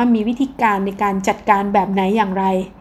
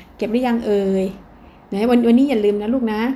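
kind parent voice. Shown as a demonstration. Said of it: "น้ำเสียงของพ่อแม่เนี่ยมาดี".

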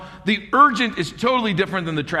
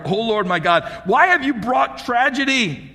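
crying out; 5 semitones higher than usual. Retold or imitated. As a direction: call out to God in anguish. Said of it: "He cried out to the Lord".

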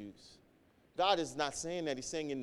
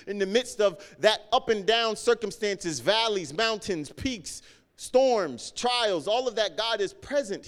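building sermon climax; 4 semitones higher, 5 dB louder than usual. Acted. Climax list of trials.

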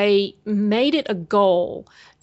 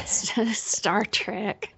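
Minnesota accent; 5 dB quieter than usual. Real, not acted. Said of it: "It really is my accent".

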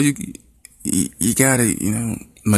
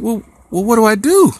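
much higher, louder, whiny plea; helpless kid; 13 semitones higher, 6 dB louder than usual. Retold or imitated. Daughter on the toilet begging dad for help, high and whiny. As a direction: wail it like a stranded teen.

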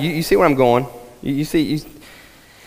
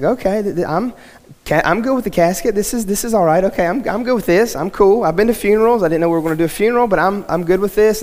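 nervous self-reassurance; 4 semitones higher than usual. Retold or imitated. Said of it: "And so I'm like".

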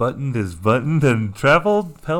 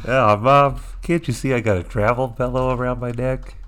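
faking frailty; 2 semitones higher, 4 dB louder than usual. Pretend. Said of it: "Pretending to be sick".

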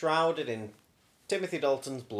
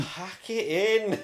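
slow, high, drawn-out plea; frustrated; 6 semitones higher, much slower than usual. Retold or imitated. Co-host repeats Simon Pegg's line, slow and exasperated. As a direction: stretch it out in worn-out exasperation.

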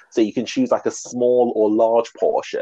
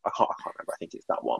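whispering; 5 semitones lower, 9 dB quieter, faster than usual. Real, not acted. Aside while trying to remember.

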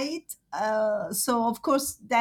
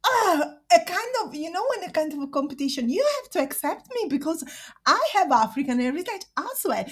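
fighting back tears, insisting she belongs; close to tears; 5 semitones higher, faster than usual. Real, not acted. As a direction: voice catching as she pleads. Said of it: "I'm a bit emotional about that".

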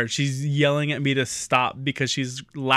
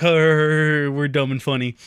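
imitating a dopey chuckle, slow; mock group chuckle; 5 dB louder, much slower than usual. Comedian family laughing at their own joke, mock chuckle. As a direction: chuckle along, drawn out, mocking yourselves. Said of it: "we all kinda, like, chuckled".

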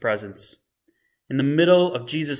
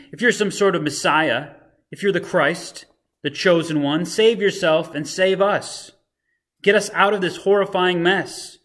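mocking criminal; 4 semitones higher, 4 dB louder than usual. Mocking criminal voiced in retelling.

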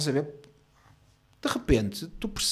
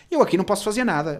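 higher, louder mock refusal; dismissive clerk; 6 semitones higher, 6 dB louder, faster than usual. Clerk refusing to help a client, dismissive. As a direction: imitate a clerk who won't help.

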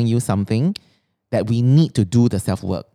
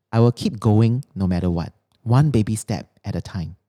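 affirmation reading. Acted. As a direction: read each line like a mantra. Reads her written affirmations.

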